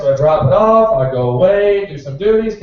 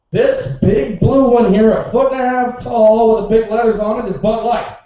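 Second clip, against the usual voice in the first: sarcastic; 4 semitones higher, 4 dB louder than usual. Retold or imitated. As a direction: spell it out as if to a child. Sarcastic answer to the customer.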